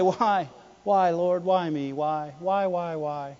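hushed mock lament; mock pleading. Acting out a loser's complaint to God.

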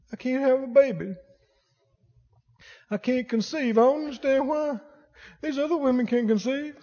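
quiet, hurt voice of a barren wife; soft sad lament. Acted. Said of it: "Crying. Why?".

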